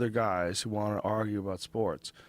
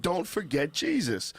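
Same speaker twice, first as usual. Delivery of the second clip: put-on Cuban accent; 6 semitones higher than usual. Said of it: "He was saying".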